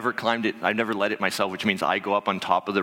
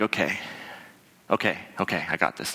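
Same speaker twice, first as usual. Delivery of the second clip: self-calming; 3 semitones lower, 3 dB quieter than usual. Retold or imitated. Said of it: "I'm like".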